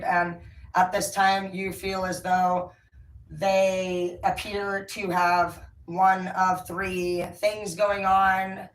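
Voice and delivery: slow, measured formal message; professional wording. Retold or imitated. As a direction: read it out like a careful official notice. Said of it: "is what I said".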